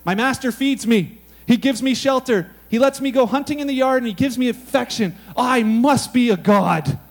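proud cat, drawing out the last line; smug cat voice. Retold or imitated. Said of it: "A cat says things like this".

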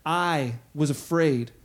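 a hint of a shamed man admitting it; ashamed Adam. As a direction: drag the words out in shame. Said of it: "what is his words?".

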